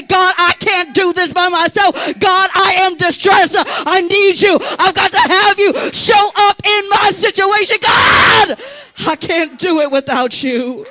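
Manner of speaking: loud, pleading cry to God; desperate prayer from the pulpit. Acted. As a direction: beg God for help out loud. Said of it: "let tears flow and say".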